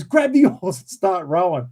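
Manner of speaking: pressing, slightly panicky command; mock panic. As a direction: imitate mild panic giving orders. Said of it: "he's starting to panic as well".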